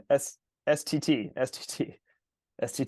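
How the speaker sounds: S T T, slow, hissing the S; "S" stretched out like a hissing snake; drawn-out s like a snake. Shown as a demonstration. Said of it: "Triple S".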